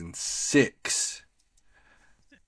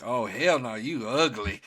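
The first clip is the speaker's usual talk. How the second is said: sassy mock rejection; 3 semitones higher than usual. Imagined blunt rejection on show.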